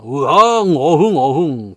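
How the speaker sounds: mock tiger roar, drawn out; storyteller's "eoheung" tiger noise. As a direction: playfully imitate a growling tiger. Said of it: "호랑이 와가지고".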